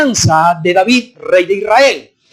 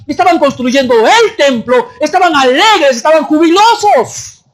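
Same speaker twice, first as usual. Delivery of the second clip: raised, high-pitched jubilant preaching; fervent preaching; 4 semitones higher than usual. Real, not acted. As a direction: build to an exultant high finish. Preacher describing the rejoicing with fervor.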